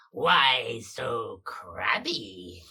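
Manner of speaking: very slow, drawn-out creepy taunt; creepy little voice. Acted. Rat monster taunts the hero from behind, slow and creepy. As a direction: stretch each word out like a sneaky monster. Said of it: "a creepy little voice that goes".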